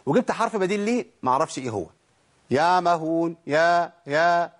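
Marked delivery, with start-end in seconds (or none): 2.5-3.4 يعمهون again with the ع dropped, yamahun; نطق خاطئ بدون عين; wrong reading, no ain. Shown as a demonstration. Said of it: "لازم تطلع العين". 3.5-4.5 a slow, stumbling يا يا, as if hunting for the letter; mock a stuck reader groping for the sound; تلعثم ساخر; mock stammer. Shown as a demonstration. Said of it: "إيه يا عم؟".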